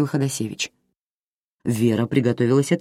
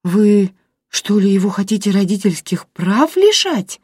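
stunned disbelief; aghast; 6 semitones higher, 4 dB louder than usual. A narrator's reading. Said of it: "ахнула Вера". (громче, выше, ошеломлённо)

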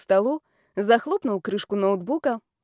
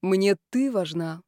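smiling; slower than usual. Acted. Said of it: "улыбнулся он".

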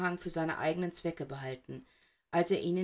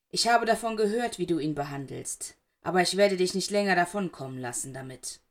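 angry; 5 dB louder than usual. Acted. Black threatens Snape.

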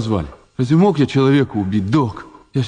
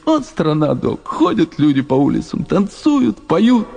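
dreamy excitement; 4 semitones higher, slower than usual. Acted. Dreamy about Mexico.

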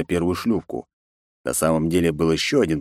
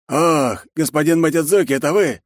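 relieved; 9 semitones higher, 4 dB louder than usual. A narrator's reading. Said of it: "с облегчением спросил хрипловатый голос".

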